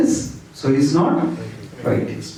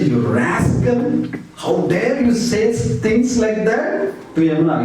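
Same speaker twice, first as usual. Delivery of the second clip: scolding; 6 semitones higher than usual. Retold or imitated. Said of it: "He started scolding Yamuna".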